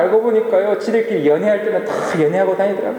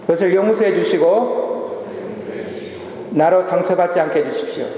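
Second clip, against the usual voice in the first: model prayer. Shown as a demonstration. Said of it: "한번 저를 따라하겠습니다".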